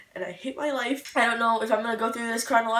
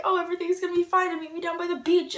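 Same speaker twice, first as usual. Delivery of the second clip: dreamy quote; 6 semitones higher, 3 dB louder, faster than usual. Retold or imitated. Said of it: "it was like".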